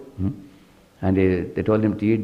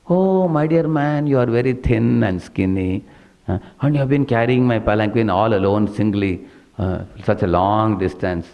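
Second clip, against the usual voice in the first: sarcastic king. Retold or imitated. King mocks the thin bearer carrying his palanquin, sarcastic fake sympathy. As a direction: lay on fake pity to needle him. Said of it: "He spoke very sarcastically".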